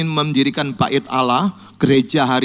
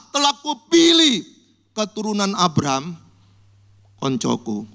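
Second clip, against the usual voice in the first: tender; 3 semitones higher than usual. Acted. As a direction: let God's words sink to a gentle close. Tender quote of God.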